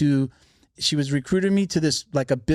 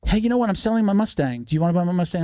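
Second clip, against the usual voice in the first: higher, eager salesman's pitch; friendly neighbor; 4 semitones higher than usual. Retold or imitated. Neighbor offering the little sister his Mustang, eager higher pitch. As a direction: lightly play a neighbor offering a deal.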